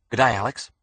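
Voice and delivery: lightly voiced Aussie doctor; Australian accent. A narrator's reading. Doctor greeting Alex, in a light Australian accent. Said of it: "also spoke with an Australian accent".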